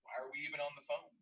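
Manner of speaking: mock bold challenge; challenging question. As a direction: call her bluff. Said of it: "the obvious statement was".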